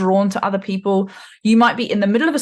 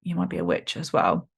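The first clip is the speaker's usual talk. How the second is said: much lower and softer, a playful witchy croon; spooky witch voice; 9 semitones lower, 6 dB quieter than usual. Pretend. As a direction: purr the verdict like a storybook witch. Teasing spooky witch aside.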